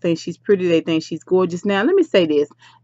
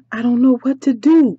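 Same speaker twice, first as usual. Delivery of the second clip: gasp, then higher helpless plea; acted helplessness; 6 semitones higher than usual. Duchess sits there after the call, acted helplessness. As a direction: imitate someone lost and panicking.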